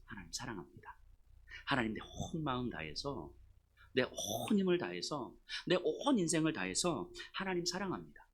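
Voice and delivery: soft, unhurried devotional prayer; loving confession. Acted. Confessing love to God in prayer, soft and tender. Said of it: "제가 가장 먼저 하나님께 하는 고백".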